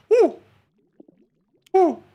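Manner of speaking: short, high owl hoot; imitated owl call. Owl hoots after Houdini the owl.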